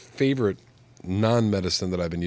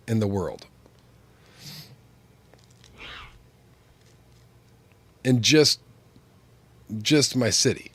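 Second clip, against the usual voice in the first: higher, louder amazed bragging; excited emphasis; 3 semitones higher, 5 dB louder than usual. Real, not acted. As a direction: punch it like an incredible fact. Marvelling at city population size.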